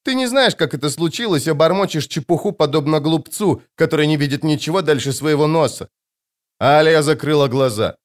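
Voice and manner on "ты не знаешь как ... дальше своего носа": put-on child scorning. Girl continues scorning crone.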